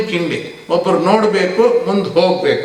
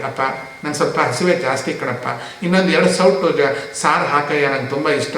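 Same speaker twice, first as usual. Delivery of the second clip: gentle request; 3 semitones lower than usual. Shown as a demonstration. Guest politely asking the server for more, gentle coaxing. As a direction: plead sweetly like a hungry guest. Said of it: "ಅದನ್ನೇ ನಿಧಾನವಾಗಿ".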